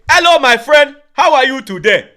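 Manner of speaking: prim proper English greeting; mock posh greeting. To the youth, a mock proper English hello. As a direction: sound politely proper. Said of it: "Do you say".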